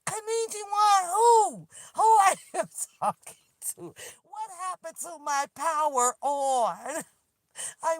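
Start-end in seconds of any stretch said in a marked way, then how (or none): 0.1-1.1 high, singsong mock of the device lady; headphone lady voice. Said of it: "this is how she". 1.1-3.8 laughing disbelief. Real, not acted. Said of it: "mock outrage".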